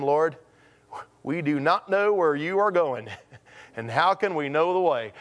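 lightly voiced Southern accent. Thomas questioning his Lord, light Southern accent. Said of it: "I always picture Thomas with a southern accent".

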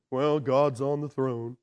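slow, sagging gloom; mopey Eeyore. Retold or imitated. Grumpy Christian saying a God thing, mopey and slow. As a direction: say something hopeful without any hope. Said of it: "call 'em Christian Eeyores".

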